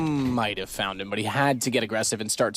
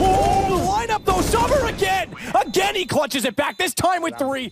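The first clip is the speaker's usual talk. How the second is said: excited shout. Real, not acted. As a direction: erupt as the clutch lands. Caster erupts at the clutch.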